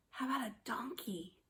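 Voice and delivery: soft whispered prompt. Acted. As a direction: whisper it like a secret. Whispered question.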